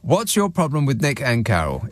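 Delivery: upbeat vintage advert read; chipper 1950s ad. Acted. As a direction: plug the podcast like a jingle host. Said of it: "Trying to advertise it".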